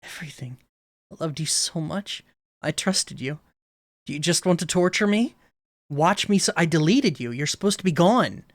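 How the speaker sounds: lightly acted betrayed Monika; voicing Monika. Monika confronting the player who deleted her, hurt. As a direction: read her as hurt and accusing. Reads Monika's dialogue aloud.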